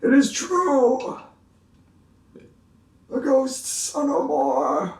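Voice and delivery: slow, high, grand; solemn proclamation. Acted. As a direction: announce it like a miracle.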